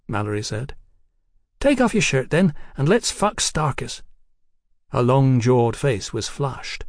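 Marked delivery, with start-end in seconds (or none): 1.6-4.0 put-on high, giddy voice of a tipsy young woman. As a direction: play her high and cheeky. Hetty voiced by narrator.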